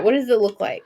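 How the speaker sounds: ordinary talk, nothing marked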